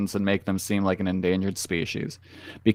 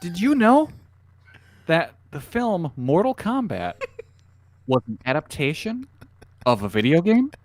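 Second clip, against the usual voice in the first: clickbait video narrator; 7 semitones higher than usual. Pretend. Mock trivia video narration.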